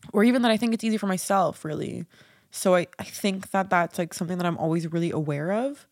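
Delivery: congested, nasal from crying. Real, not acted. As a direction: speak through a blocked nose. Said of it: "why do I sound so nasally".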